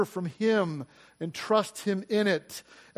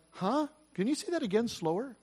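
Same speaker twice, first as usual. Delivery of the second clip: baffled disbelief; 3 semitones higher, 8 dB quieter than usual. Retold or imitated. Retold baffled reaction to car offer.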